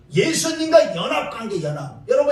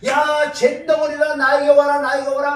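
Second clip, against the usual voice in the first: voicing Jesus calling; 3 semitones higher, 5 dB louder than usual. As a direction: call out like a master summoning sinners. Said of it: "예수님 뭐라 그러냐".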